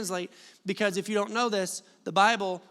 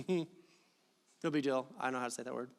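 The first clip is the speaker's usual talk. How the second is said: laughing aside; 7 semitones lower, 8 dB quieter than usual. Real, not acted. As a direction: laugh off the stumble quietly.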